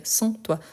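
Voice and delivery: "sans toi" with a full nasal "sans", light; correct version. Shown as a demonstration. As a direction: model the right "sans toi" gently.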